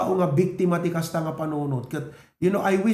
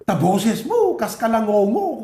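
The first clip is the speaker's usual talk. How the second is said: louder and higher, a teacher's jeer; mocking teacher; 4 semitones higher, 5 dB louder than usual. Pastor imitating a teacher mocking his singing, jeering. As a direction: sneer it like a scornful teacher. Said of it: "Kuna na".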